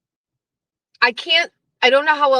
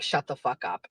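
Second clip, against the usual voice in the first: low mock shutdown; 12 semitones lower, 12 dB quieter than usual.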